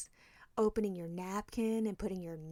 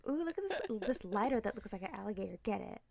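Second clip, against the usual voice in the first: excited discovery; 4 dB quieter than usual. Retold or imitated. Delighted gas station find.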